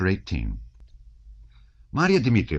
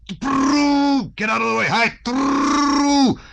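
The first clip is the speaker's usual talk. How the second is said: very high, loud trilled horse calls; rolled-r cries, high and ringing; driver's shouting; 6 dB louder, much slower than usual. A narrator's reading. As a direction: holler to clear the road at a gallop. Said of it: "The shouting of Balaga and of the sturdy young fellow".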